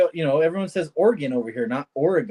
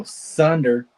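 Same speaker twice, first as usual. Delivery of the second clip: Australian accent. Shown as a demonstration. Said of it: "exactly how they talk".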